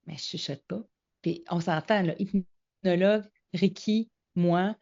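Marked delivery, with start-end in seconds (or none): 0.1-0.8 soft near-whisper, much quieter; hushed, as if hiding the words; retold whisper. To her friend at the restaurant, hushed denial. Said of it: "as-tu fini de chuchoter?".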